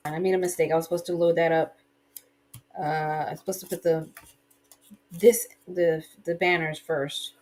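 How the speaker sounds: talking while chewing gum; words round a wad of gum. Real, not acted. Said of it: "It's kinda hard to talk and chew gum at the same time".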